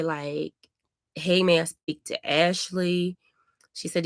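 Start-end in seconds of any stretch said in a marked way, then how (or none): 1.1-3.2 slow, courteous request; polite phone greeting. Shown as a demonstration. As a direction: model how a polite caller would ask. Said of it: "She didn't say".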